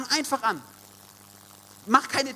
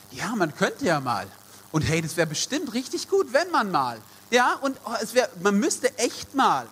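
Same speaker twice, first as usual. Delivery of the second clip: mock philosophizing; 5 semitones higher than usual. Preacher mimics people who only talk about acting, mock musing. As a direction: imitate idle would-be doers, pitch swinging up and down. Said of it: "Ja, die Sätze kennen wir alle".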